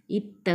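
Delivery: "ఇత్త" with a held double t; pressed doubled consonant. Shown as a demonstration. Teacher showing learners the doubled t, pressed "ఇత్త". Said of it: "తావొత్తే ఒత్తి పెట్టి".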